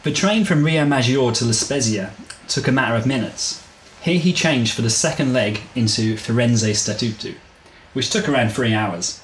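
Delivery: measured audiobook-style reading; story narration. A narrator's reading. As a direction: read the story out evenly, phrase by phrase. Reads the chapter aloud.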